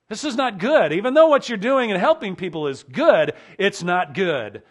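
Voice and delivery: emphatic warning. Acted. Preacher presses Jethro's warning.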